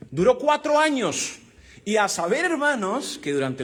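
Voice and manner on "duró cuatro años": cuatro años said high and slow, hitting cuatro; stressing cuatro. Acted. Preacher to congregation, slow high stress on cuatro. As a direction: lean hard on cuatro, drawn out.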